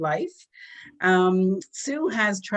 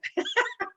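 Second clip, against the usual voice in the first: teary laugh; 13 semitones higher, 3 dB quieter than usual. Real, not acted. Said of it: "gonna compose myself here for a minute".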